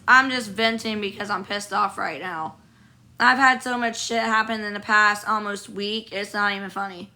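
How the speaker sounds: rough, hoarse sick voice; talking hoarse with a cold. Real, not acted. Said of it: "me sounding like a fucking sick dog".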